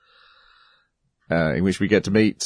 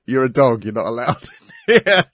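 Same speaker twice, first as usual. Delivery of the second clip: high, loud laughing yell; security guard yelling; 4 semitones higher, 3 dB louder than usual. Retold or imitated. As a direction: bark it out like a guard.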